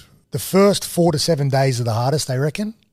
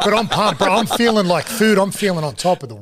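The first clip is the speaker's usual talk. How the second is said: higher, buzzing delivery; pumped up; 5 semitones higher than usual. Real, not acted. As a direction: sound like you're on top of the world. Describing sugar high.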